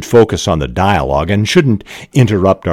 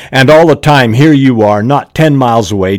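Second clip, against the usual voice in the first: louder, higher accusing outburst; angry daughter; 6 semitones higher, 6 dB louder than usual. Acted. Daughter blasts her mother, a raised angry outburst.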